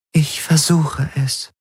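a calm, distant alien intelligence; alien Helix voice. A narrator's reading. Helix answers Garland.

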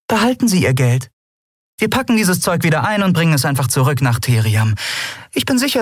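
put-on high, smiling and sly young captain; young captain, disarming. A narrator's reading. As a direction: charm him while you cut him down. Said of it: "sagte sie mit entwaffnendem Lächeln".

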